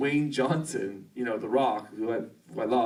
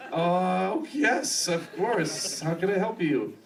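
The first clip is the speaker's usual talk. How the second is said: much higher, eager and startled; mock flustered eagerness; 6 semitones higher, slower than usual. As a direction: gush like you can't believe who's calling. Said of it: "And I'm like".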